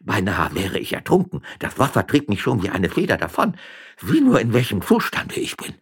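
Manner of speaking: put-on soaked old man pleading his case; self-pitying old magistrate; flustered old magistrate. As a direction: explain yourself in a shaken old-man voice.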